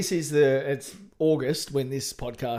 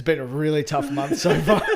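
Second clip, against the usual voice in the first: louder, laughing mock lament; 7 dB louder than usual. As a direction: laugh through the fake complaint. Quoting own joke post.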